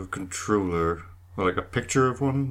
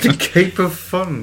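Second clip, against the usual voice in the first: dramatic announcer voice; 10 semitones higher, 10 dB louder, slower than usual. Pretend.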